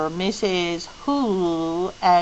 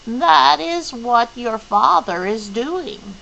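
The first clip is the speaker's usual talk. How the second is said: serious, solemn; 4 semitones higher, 5 dB louder, slower than usual. Acted. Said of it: "her voice, like Missus Hu's, very serious, very solemn".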